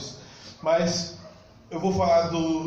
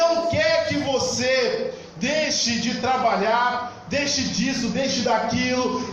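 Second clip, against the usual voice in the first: raised, insistent preacher's delivery; preaching; 4 semitones higher than usual. Real, not acted. Preacher urging the congregation toward faith, preaching.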